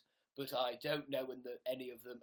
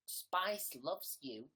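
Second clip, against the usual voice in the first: slow drawn-out read; much slower than usual. Acted. Reading name slowly.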